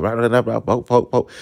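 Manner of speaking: quick mock Atlanta accent babble; imitating Atlanta accent. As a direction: parody a Southern dude's Atlanta accent. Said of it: "he got this little Atlanta accent".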